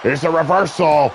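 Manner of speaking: live wrestling play-by-play, rising with the action. Acted. Commentator calling a wrestling match for viewers, play-by-play. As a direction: call the match like a ringside announcer.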